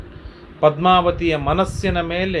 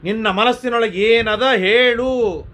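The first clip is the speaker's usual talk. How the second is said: higher, urgent motherly pleading; worried mother pleading; 7 semitones higher than usual. Acted. Bakula begging the silent Srinivasa, urgent worried plea. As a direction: press him, a worried mother begging for an answer.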